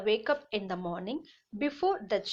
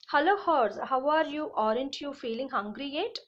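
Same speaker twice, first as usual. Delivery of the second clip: cow voice; 3 semitones higher than usual. Acted. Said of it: "So cow".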